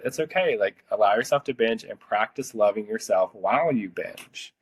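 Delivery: loving way. Retold or imitated. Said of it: "in the most, like, loving way".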